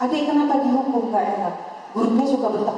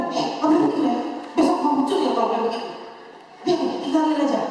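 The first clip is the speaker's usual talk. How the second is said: quick scolding warning, slightly raised; imitated telling-off, pitched up a little; mock parental threat; 4 semitones higher, much faster than usual. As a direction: act out a parent warning a naughty child. Acting out a parent threatening a child.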